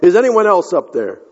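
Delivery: acted yell from a man left hanging; mock yell. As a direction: call up for rescue, starting high and falling away. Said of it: "Finally, Jack yelled".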